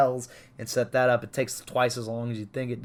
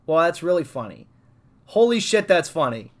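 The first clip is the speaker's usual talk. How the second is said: excited; 3 dB louder than usual. Retold or imitated. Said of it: "Yakuza literally is like".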